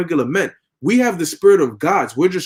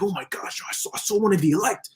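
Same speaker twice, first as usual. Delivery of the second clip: starts hushed and fast, then climbs higher; amazed witness; 4 semitones higher than usual. Retold or imitated. Heathen going home telling of the elect, starstruck. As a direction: gush like a starstruck fan.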